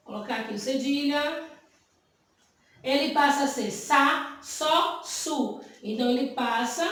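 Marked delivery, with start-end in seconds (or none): 3.7-5.6 "sa, só, su" as separate syllables with an S sound; teacher's demonstration of "sa, só, su", each starting with S. Shown as a demonstration. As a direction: sound out "sa, só, su" one by one for learners. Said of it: "a ter som de S".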